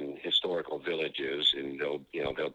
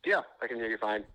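tinny, like on speakerphone; phone speaker; 4 semitones higher than usual. Real, not acted. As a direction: voice over a phone line. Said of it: "does it sound all right on your end?".

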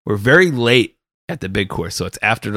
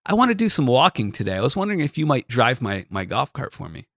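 golfer voice; 4 semitones higher than usual. Retold or imitated. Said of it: "so he's like".

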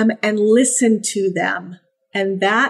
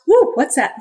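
startled puppy; 4 semitones higher than usual. Acted.

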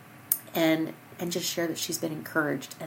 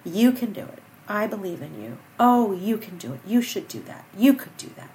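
dad's encouragement; 3 dB louder than usual. Retold or imitated. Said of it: "My father's voice is what I hear".

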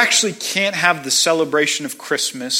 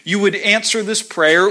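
pleading demands, climbing higher and faster; demanding of God; 3 semitones higher than usual. Retold or imitated. A believer bargaining with God, rising insistent pleading. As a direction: push each "if you really loved me" harder and higher. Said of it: "So I think to myself".

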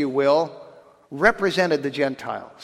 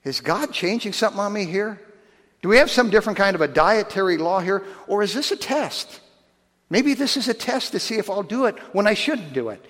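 puzzled Peter; 2 semitones higher than usual. Retold or imitated. Peter puzzling over God's command, confused wondering. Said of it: "And he's going".

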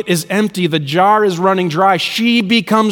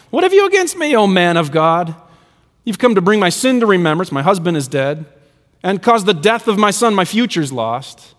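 a mildly raised, pleading cry at the prophet, sharp jump on the first words; retold angry yelling. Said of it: "she starts yelling at Elijah".

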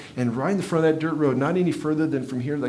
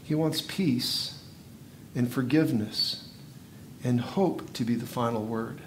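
tender sermon close; 2 semitones lower, 6 dB quieter than usual. Acted. Preacher slows for message.

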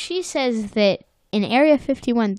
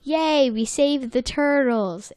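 slow, higher, chirpy cheer; mock cheery VSCO girl; 4 semitones higher, slower than usual. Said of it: "the Visco girl goes".

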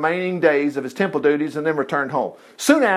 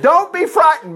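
lightly voiced angel; 10 semitones higher than usual. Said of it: "Notice he said".

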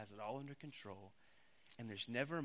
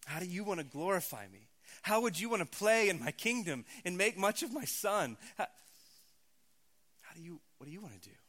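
tender father God; 3 semitones higher, 5 dB louder than usual. Retold or imitated. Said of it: "God as your father turns to you and says".

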